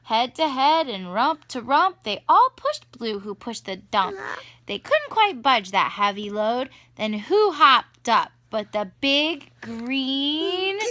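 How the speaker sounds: lively, rhythmic picture-book narration; reading to children. A narrator's reading. Parent reading animals to the rescue, sing-song storytelling. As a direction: read the rhyme aloud to a toddler.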